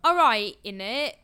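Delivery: mock British slang voice; playful, amateur British accent; put-on British accent. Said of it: "saying everything like I'm in".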